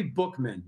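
"Bookman" with the vowel of "book"; correct surname pronunciation. Shown as a demonstration. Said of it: "No one ever gets it right".

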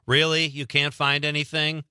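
mock-sarcastic disbelief. Host imitates bookseller teasing customers, sarcastic. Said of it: "do you get sarcastic like that".

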